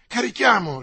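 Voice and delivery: high, loud echo of the order; rallying call. A narrator's reading. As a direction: call out the charge. Porthos echoes the call to charge.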